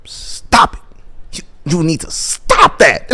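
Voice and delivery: hushed imitation of a secret warning; urgent whisper. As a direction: whisper a frantic warning, building to a strained hiss. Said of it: "And then he whispers to him".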